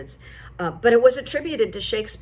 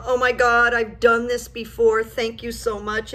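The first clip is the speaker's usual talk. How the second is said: retold yell; 3 semitones higher, 4 dB louder than usual. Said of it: "And I yelled to him".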